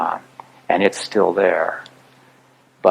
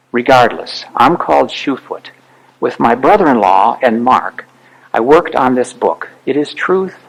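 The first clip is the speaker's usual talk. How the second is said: emphatic, raised-pitch public reading; impassioned read-aloud testimony; 2 semitones higher, 3 dB louder than usual. Acted. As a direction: declare it as a village leader's testimony. Reads a villager's written response aloud.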